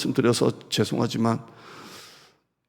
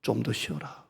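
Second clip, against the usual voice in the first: quiet fatherly reassurance; tender comfort; 2 semitones lower, 10 dB quieter than usual. Acted. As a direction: soothe a tired son. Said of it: "이렇게 말해요".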